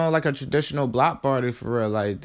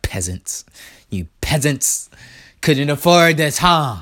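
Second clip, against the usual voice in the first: mock snobbish king; 6 dB louder than usual. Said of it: "looking up to the people in the stands like".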